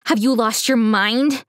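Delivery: high, outraged, building to a cry; furious. Acted. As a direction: let the outrage climb. Daughter furious at father.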